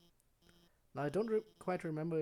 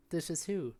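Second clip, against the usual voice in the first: higher, louder lady voice; woman's voice; 5 semitones higher, 3 dB louder than usual. Acted. The woman behind the door asks, raised pitch. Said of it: "woman's voice".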